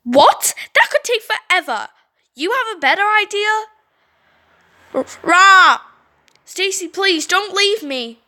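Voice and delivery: high, frantic begging; desperate pleading. Acted. Trapped Brittany begs Stacy to stay, high and frantic. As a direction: beg not to be left.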